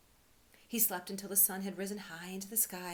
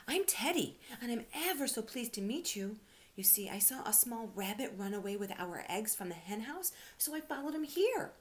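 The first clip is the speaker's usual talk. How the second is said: higher and louder, bright and eager; a polite little bear bubbling over; high eager teddy bear voice; 5 semitones higher, 4 dB louder than usual. Acted. Teddy eagerly introduces himself.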